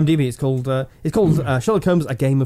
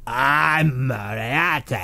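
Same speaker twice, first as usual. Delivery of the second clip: big booming voice; much slower than usual. Retold or imitated. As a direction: boom it out slowly. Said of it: "he's got a big booming voice".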